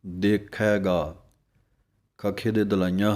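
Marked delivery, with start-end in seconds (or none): 0.0-1.2 ਦੇਖੇਗਾ said slowly, each syllable clear; slow careful reading. Shown as a demonstration. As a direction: read ਦੇਖੇਗਾ slowly as the teacher shows. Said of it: "ਦੇਖੇਗਾ ਨਹੀਂ ਕਹਿ ਦੇਣਾ". (ਹੌਲੀ ਹੌਲੀ ਸਾਫ਼ ਉਚਾਰਨ)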